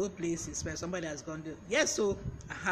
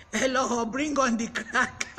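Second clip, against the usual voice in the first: loud, amused read-out of a comment, slowing on the last words; laughing; 4 semitones higher, 6 dB louder, slower than usual. Real, not acted. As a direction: laugh your way through it, louder. Reading a viewer comment, amused.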